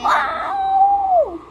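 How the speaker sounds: high, loud whoop; excited shout. Real, not acted. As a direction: yell with thrill on the jump. Parachute jump.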